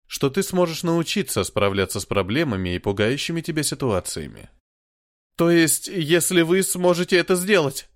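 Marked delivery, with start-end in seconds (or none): 5.4-7.9 high, loud tearful asking; crying question. A narrator's reading. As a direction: ask through tears. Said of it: "плача спросил Миллиган".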